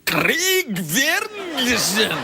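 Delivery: mock host announcing a guest; Regis doing Craig. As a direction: drag the name out like a host announcing. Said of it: "when Regis does me, he goes".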